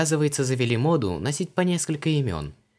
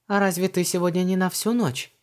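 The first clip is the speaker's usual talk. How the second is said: put-on much higher, just-woken young woman; Luise's voice; 10 semitones higher, 3 dB louder than usual. A narrator's reading. Luise asks Vanessa why she is home, high. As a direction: ask lightly, a bit surprised.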